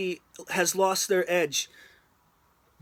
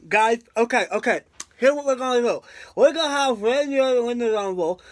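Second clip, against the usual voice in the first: a hint of a producer rallying his crew; bad Kevin Dunn impression; faster than usual. Vlogger mocks a WWE producer pitching the plan, lightly voiced bossy impression. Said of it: "I'm doing a bad Kevin Dunn impression".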